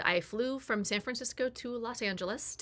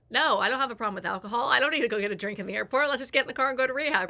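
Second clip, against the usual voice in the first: fast, louder, insistent brush-off; defensive denial; 4 semitones higher, 5 dB louder, faster than usual. Retold or imitated. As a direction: wave it off in a rush. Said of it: "I was in such denial".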